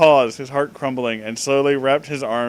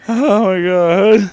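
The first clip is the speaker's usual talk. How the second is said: drawn-out disbelief; 3 dB louder, slower than usual. Real, not acted. Overwhelmed by text.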